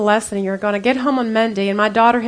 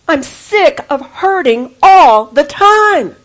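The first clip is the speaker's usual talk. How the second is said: bitter; 4 semitones higher, 8 dB louder, much slower than usual. Retold or imitated. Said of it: "I was so bitter".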